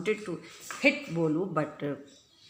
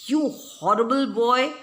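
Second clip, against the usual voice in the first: mock weeping; 6 semitones higher, 7 dB louder than usual. A narrator's reading. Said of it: "wept Nina".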